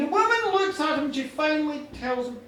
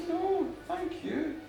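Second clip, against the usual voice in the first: slow, softer, measured thank-you; gracious returned thanks; 3 semitones higher, 3 dB quieter, much slower than usual. Acted. Goddess thanking the farmer back, gracious and slow.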